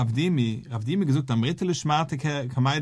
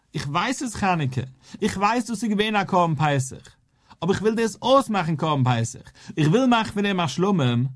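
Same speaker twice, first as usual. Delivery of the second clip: raised, higher-pitched insistence; mock protesting shout; 5 semitones higher than usual. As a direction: act out crying out a declaration, voice lifted. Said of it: "Wenn ich schrei".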